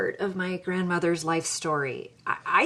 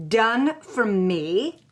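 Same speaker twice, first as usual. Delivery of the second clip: slow, rising disbelief on Done for me?; incredulous repeat; 3 semitones higher, much slower than usual. Retold or imitated. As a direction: stretch out Done for me? in outrage. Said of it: "I say".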